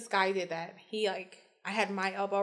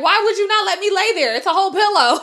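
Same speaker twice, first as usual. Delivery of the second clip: mock angry kid; 9 semitones higher, 12 dB louder than usual.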